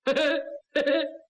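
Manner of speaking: short acted happy laugh; pleased little laugh; delighted chuckle. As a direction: chuckle in simple-hearted relief. Delighted reaction to gift of rice.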